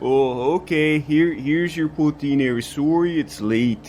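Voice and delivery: put-on slow, Canadian-accented apology; Canadian accent, unhurried and apologetic. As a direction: hand it over with a Canadian "sorry". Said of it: "I picked up your accent".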